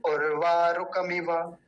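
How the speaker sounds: उर्वा रुकमिव said slowly with short vowels; recited slowly. Shown as a demonstration. Teacher drilling the chant, slow and careful. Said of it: "जल्दी बोला जाएगा".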